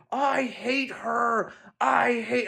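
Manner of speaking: put-on high, slow tantrum wail of a child; boy screaming. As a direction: wail it out like a kid mid-tantrum. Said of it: "he starts screaming my daughter's name".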